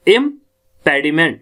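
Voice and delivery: impediment slowly, stressing the second syllable "PED"; im-PED-iment, weight on "PED". Shown as a demonstration. Teacher showing where the accent falls, second-syllable stress. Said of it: "दूसरे syllable पे हमने stress देना है".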